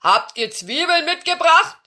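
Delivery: demanding giant shout; giant calling. A narrator's reading. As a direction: bellow the question like a giant. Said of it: "rief der Riese Lelbeck".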